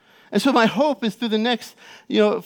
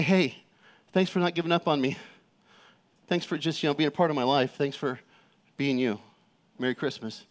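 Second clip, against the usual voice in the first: soft, lowered voice, tender thanks; heartfelt note; 5 semitones lower, 5 dB quieter than usual. Retold or imitated. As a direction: say it quietly, like a personal note. Reads out his family letter.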